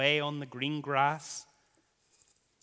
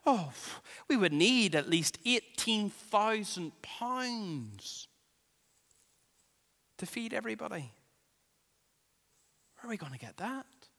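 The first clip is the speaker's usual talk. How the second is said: mock panic; 5 semitones higher than usual. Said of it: "their heads start to spin in panic".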